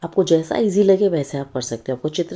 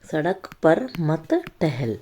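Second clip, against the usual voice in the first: slow reading; slower than usual. Shown as a demonstration. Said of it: "reading finished sentence".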